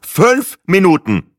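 loud, slow, high exclamation; curt huff, hammering out both words; snorted. A narrator's reading. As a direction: cut in with a huffy, forceful snort. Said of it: "schnaubte ich".

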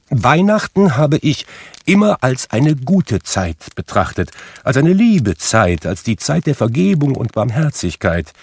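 high, earnest, spirited speech; ardent nephew. Acted. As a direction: defend it with heartfelt fervour. Nephew's heartfelt speech on Christmas.

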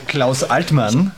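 winner's name stretched out very slowly; drawn-out announcement. Real, not acted. Radio host reveals the quiz winner, slowly drawn out. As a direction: draw out each syllable of the name.

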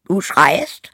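high, loud donkey voice; donkey character. Acted. Donkey remarks on the rooster's screaming, high and loud. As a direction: exclaim over the din. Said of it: "sprach der Esel".

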